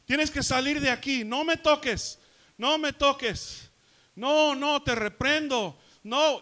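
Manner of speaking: high, loud imitation of frantic yelling; retold shouting. Preacher imitates mom warring in prayer, shouting. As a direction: yell it like mom rebuking the devil. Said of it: "Y estaba gritando".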